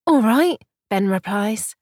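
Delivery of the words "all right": loud, high greeting; calling back. Acted. Ben answers a friend across the bar, loud call. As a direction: hail back over the crowd.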